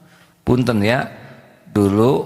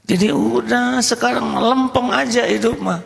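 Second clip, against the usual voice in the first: emphatic; 14 semitones higher than usual. Real, not acted. Preacher's emphatic high line.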